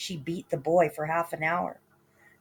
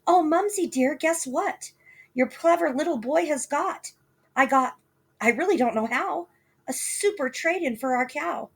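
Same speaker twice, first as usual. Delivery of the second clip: put-on high, eager little boy; proud little boy; 9 semitones higher than usual. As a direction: show off like a pleased child. Boy boasting to mother.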